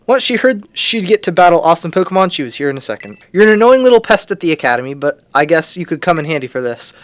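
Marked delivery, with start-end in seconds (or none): 3.3-6.9 voiced rival. Voicing Arvin's line in game.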